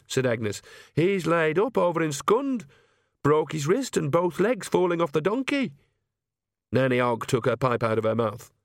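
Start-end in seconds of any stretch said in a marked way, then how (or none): 0.9-5.7 higher-pitched character voice; young witch breaking news. A narrator's reading. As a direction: deliver the bad news pitched up. Narrator voices Agnes reporting.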